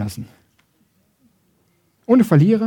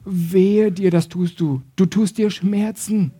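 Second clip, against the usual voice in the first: concerned warning; slower than usual. Acted. Grace warns someone who is hurting themselves, concerned warning. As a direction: warn out of care, stretching the hurt. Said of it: "Die Gnade sagt".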